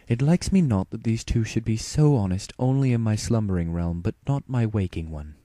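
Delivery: a weary royal complaint; Princess Luna voice. Acted. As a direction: regal voice, fraying with exhaustion. Luna musing archaically.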